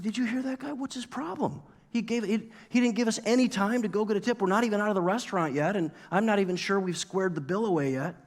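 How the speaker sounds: high-pitched, incredulous complaint; retold indignant rant, rushing as it goes on; worked-up outburst. Worked-up diner complaining to friends about the server, indignant and high. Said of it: "went from zero to a hundred".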